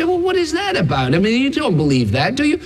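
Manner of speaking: high, incredulous mock voice of a doubter; mocking sceptic. Preacher mimicking people who scoff at miracles, high and incredulous. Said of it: "People say".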